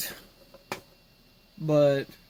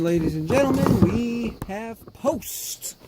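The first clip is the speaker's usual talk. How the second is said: mock showman announcing the result; excited announcement; 5 semitones higher than usual. Real, not acted. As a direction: present it like a ringmaster. Announcing the computer booted.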